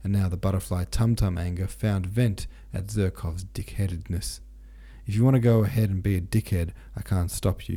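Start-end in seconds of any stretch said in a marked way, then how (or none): 5.0-7.8 sharp. Acted. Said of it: "he said sharply".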